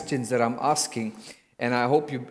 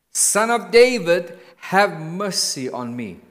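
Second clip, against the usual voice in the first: crying out louder; 3 semitones higher, 5 dB louder, slower than usual. Acted. Beggar crying out over the crowd, louder plea. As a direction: lift the cry above the crowd. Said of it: "but he cried out all the more".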